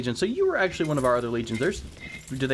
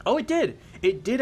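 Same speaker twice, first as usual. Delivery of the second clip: surprised; 10 semitones higher than usual. Real, not acted. Loyalty jumped unexpectedly.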